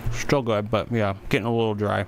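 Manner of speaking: talking while chewing a donut; words round a bite of food; mouth full. Real, not acted. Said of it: "speaking with my mouth full".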